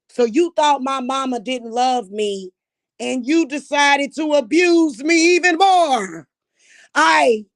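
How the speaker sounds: rising into a furious shout; angry shout. Real, not acted. Ranting at her family, shouting in fury. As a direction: yell it at the family who abused her.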